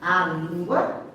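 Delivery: "reconhecida" drawn out syllable by syllable; slow emphatic repeat. Real, not acted. Teacher drives the key point home to the class, very slowly.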